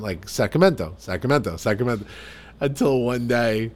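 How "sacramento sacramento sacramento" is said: light immigrant-dad accent on Sacramento; dad's accent. Shown as a demonstration. Son copying immigrant dad naming the picnic park, dad's accent. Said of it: "pronounce it in my dad's accent".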